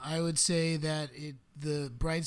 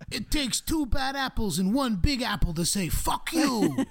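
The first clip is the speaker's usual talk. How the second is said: laughing; 9 semitones higher, 6 dB louder, slower than usual. Real, not acted. Laughing through punchline.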